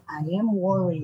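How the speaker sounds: slow, clear example sentence; slow teaching demo. Shown as a demonstration. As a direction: spell it out slowly for learners. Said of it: "Jadi lu juga bisa bilang".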